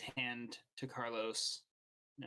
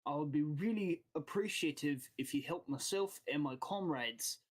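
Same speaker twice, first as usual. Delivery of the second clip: lightly voiced boss asking a favour; accented boss making a careful request; guild boss. Game master voices guild boss.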